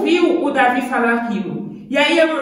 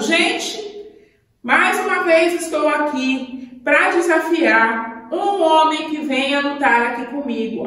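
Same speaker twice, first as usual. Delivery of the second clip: a lightly voiced giant, a touch higher, taunting; mocking giant; 3 semitones higher than usual. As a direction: sneer at the frightened army like a bully giant. Giant taunts the hiding Israelites.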